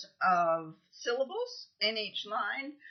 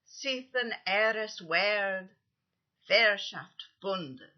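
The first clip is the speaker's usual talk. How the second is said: slow, loud, each stress hammered; heavy Old English stresses; 2 semitones higher, 4 dB louder, much slower than usual. Shown as a demonstration. Teacher reciting Beowulf aloud with heavy stresses, slow and loud. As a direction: chant it slowly, punching two beats per half-line. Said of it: "I'll do the other one".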